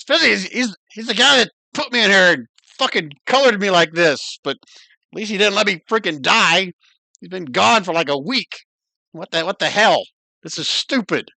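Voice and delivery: lightly voiced cranky spider; cursing spider. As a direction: complain like a trapped, starving spider.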